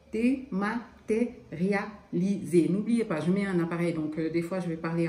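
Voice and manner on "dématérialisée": slow lisp through a mouth appliance; words lisped round a dental appliance. Real, not acted. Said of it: "en zozotant".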